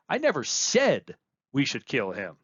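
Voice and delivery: said lifted and stretched; weight on said, not on never; said carries the line; stress on said. Shown as a demonstration. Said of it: "by where you place emphasis".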